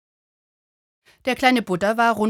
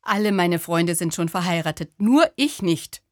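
lamenting; 3 dB louder than usual. Acted. To the little Buddha, a lonely man's mild lament. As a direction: whine it as if left behind by all friends. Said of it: "klagte er".

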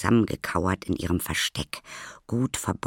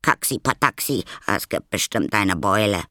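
higher, louder grumbling whine; whining complaint; 4 semitones higher, 5 dB louder than usual.

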